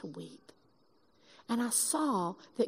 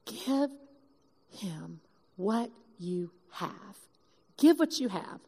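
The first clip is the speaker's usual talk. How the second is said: voice of the Spirit; slower than usual. Retold or imitated. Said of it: "I felt the Spirit of God say".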